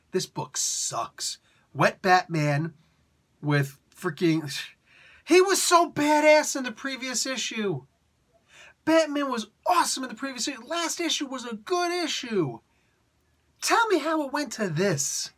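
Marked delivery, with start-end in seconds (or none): 0.1-1.4 slow, breathy mock dismissal; dismissive scoff. A reader dropping a comic, slow scoffing dismissal. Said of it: "I'd be like". 5.2-15.3 exasperated rant. Real, not acted. To the viewers about the last issue, high exasperated rant.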